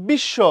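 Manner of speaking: বিশ্ব said "bish-sho"; doubled sh. Shown as a demonstration. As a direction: double the sh in বিশ্ব and drop the bofola. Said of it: "সে double হয়ে গেল".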